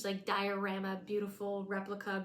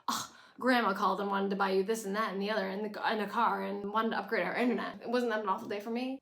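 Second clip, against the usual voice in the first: louder, fast sarcastic whine; mock her spoiled griping; mock complaint; 5 dB louder, faster than usual. Mock Lorelai complaining, imagined.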